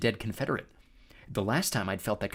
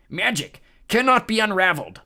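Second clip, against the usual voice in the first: booming high giant voice; cyclops voice; 10 semitones higher, 9 dB louder than usual. A narrator's reading. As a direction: boast like a cyclops. Cyclops voice continues.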